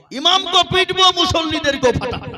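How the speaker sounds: loud, high scolding threat; threatening angel. Acted. Angel threatening the imam and worshippers, loud menace. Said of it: "ফেরেশতা বলছে".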